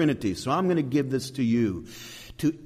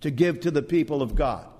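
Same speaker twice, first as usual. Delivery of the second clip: lightly acted, higher-pitched complaint; Holy Spirit; 5 semitones higher than usual. Preacher voicing the Spirit confronting Father and Son, mock complaint. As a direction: push the pitch up as if laying down terms. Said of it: "And the Spirit says".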